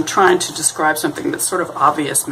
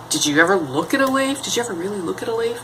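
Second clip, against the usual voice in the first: amazed wonder; 5 semitones higher, 3 dB quieter, faster than usual. Retold or imitated. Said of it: "the Aspie is like".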